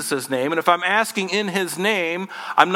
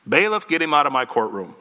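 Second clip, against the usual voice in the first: laughing mock judge.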